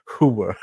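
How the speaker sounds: "hua" said slowly, r dropped, Sopranos style; Jersey pronunciation. Shown as a demonstration. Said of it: "the way they enunciated whore".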